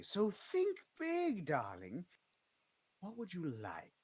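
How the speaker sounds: a slow, high honeyed push; drawn-out high coax. Acted. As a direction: stretch out think big like a tempting patron. Jolene urging the bard on.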